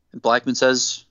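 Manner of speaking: ordinary talk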